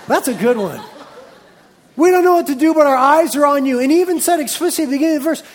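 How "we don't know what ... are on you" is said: fervent prayer. Acted.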